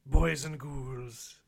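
slow spooky horror host sign-off; hammy Halloween host farewell; jack o lantern voice. Acted.

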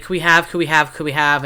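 put-on pleading kid voice, repeating; begging kids. Kids begging their parents at the store, whiny. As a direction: whine the request like a child.

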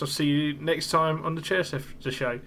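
words slurred by loose teeth; loose dentures. Real, not acted. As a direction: talk with dentures slipping. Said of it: "put my teeth back in".

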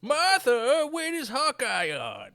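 loud, high call to the other room. Pretend. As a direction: shout across the house for Martha. Renner voiced calling wife.

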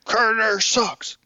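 high, drawn-out mock yell; slow, high-pitched pretend scream; mock screaming into a microphone. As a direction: stretch it out like a heckler on an amp. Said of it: "you're screaming into the microphone".

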